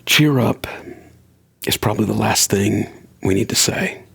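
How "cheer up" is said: breathy whispered cheer up. Retold or imitated. Quoting what people tell the depressed, whispered. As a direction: let it out as a hushed whisper.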